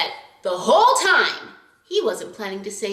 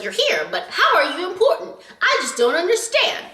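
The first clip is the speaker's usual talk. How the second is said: amused puzzlement; 9 semitones higher than usual. Retold or imitated. Mocking cute guy's role.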